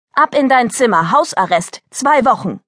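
firm parental order; stern command. Acted. Mother sending daughter to her room, commanding. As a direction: lay down the punishment with mild force. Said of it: "befahl Clarice".

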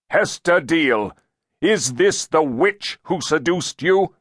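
high-pitched, accusing question; interrogating elder. A narrator's reading. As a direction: question the witness before a crowd. Elder questions girl before crowd.

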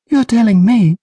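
put-on high, loud sarcastic girl. A narrator's reading. Trish snapping back at Patrick, high and loud. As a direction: toss it back high and sharp.

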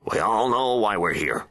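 solemn Attorney General. A narrator's reading. Attorney General taking control of the meeting, firm and measured. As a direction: state it firmly as the Attorney General. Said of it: "he added".

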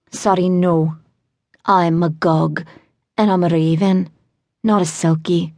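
put-on sing-song Welsh accent; lilting Welsh voice. A narrator's reading. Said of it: "in a sing-song accent I recognized as Welsh".

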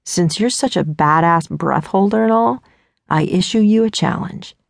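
put-on challenging young man. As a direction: lay down the dare with mock gravity. Dean issues a challenge.

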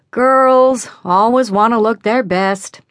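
slow mock-grumpy Dad imitation; mimicking Dad. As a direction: drag it out like a grumbling dad. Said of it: "Annie mimicked him".

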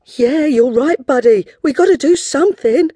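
put-on resolve it like a little girl; high girl voice. Girl agrees.

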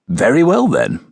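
smooth formal English butler; crisp, proper English diction; English accent. Acted. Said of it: "his smooth English accent and strict formal diction".

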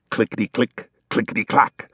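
chattering teeth. A narrator's reading. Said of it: "the wolf's teeth chattered with cold".

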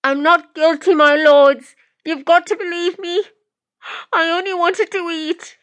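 very high, desperate woman's voice; pleading yell. Acted. Accused woman begging the lords through glass, high pleading yell. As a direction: cry out your innocence in a high-pitched plea. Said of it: "the woman yells through the glass, her voice slightly muffled".

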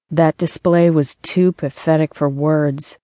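deadpan, lightly voiced roommate; monotone female voice. Roommate mocking the scene she overheard, dry monotone. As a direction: drop it dry and level, unimpressed. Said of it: "a monotone female voice said".

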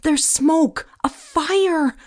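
high, alarmed exclamations in short bursts; panicked stammer. A narrator's reading. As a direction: blurt the warning in panic, pitch climbing. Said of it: "I stammered".

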